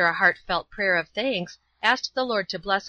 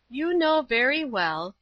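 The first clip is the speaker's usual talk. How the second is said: calm, higher-pitched reply; 6 semitones higher than usual. A narrator's reading. Old woman answers the shouting man, calmly. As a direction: stand your ground calmly, pitched up. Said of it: "said Celestina calmly".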